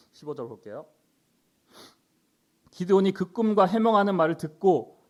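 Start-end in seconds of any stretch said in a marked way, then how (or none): 2.7-5.0 projected Bible reading to a class; louder, declaimed scripture. Acted. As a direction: read the verse out firmly. Reads scripture aloud.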